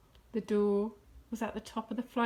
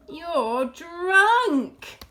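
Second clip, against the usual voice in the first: higher, louder rebuke; loud accusation; 5 semitones higher, 9 dB louder than usual. A narrator's reading. Fox accusing Rat, loud disapproval. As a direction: call Rat out loudly.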